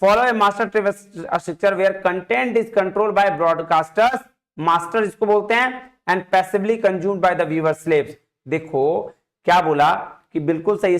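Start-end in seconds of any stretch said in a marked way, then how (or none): 0.0-4.2 reading the question out slowly, word by word. Shown as a demonstration. Reads statement slowly. 6.1-8.1 reading the question out slowly, word by word. Shown as a demonstration. Reads statement slowly.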